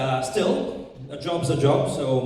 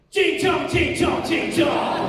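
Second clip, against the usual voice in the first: high, loud mocking chant; drunken heckler's taunt; 11 semitones higher, 3 dB louder, slower than usual. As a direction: chant it fast, right in someone's face. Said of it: "drunken, skinhead Angmo just comes right up".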